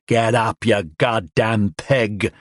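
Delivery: slow, hate-filled words; slow menacing growl. Acted. Man beating the drunk, slow menacing rage. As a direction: spit each word slowly.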